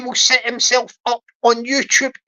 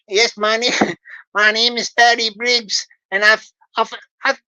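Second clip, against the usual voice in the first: put-on Louisiana accent. Scammer Barry introducing himself in a fake Louisiana accent. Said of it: "speak with his American Louisiana accent".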